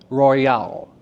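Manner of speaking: ROYAL split as ROY-AL, bouncing off the Y; syllable break. Shown as a demonstration. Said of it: "Roy is the end of the first syllable".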